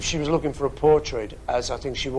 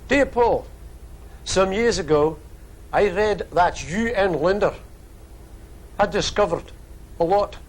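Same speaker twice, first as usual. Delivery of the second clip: put-on Australian accent; 4 semitones higher than usual. Reading Sydney listener's letter aloud in a put-on Australian accent. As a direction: read the letter in a hammed-up Australian accent that drifts Scottish. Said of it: "doing the Australian accent".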